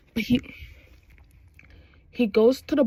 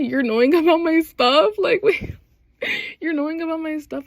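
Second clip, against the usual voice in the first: pleasantly taken aback; 5 semitones higher than usual. Acted. Acts out flattered surprised character.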